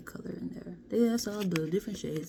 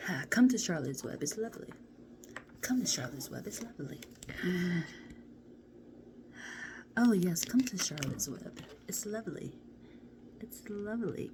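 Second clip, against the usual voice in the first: seductive invitation; 2 semitones higher than usual. Pretend. Luring viewers into Charlotte's Web, a teasing seductive coo. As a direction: coax them into the web, sweetly. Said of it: "why am I talking like this".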